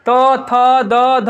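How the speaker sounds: तो, थ, द, ध each with a repeated tongue tap; tongue-placement demo. Shown as a demonstration. Teacher showing pupils the repeated contact in the mouth, articulation demo. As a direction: tap out तो, थ, द, ध separately. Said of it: "आ रहा है मुंह में बार बार".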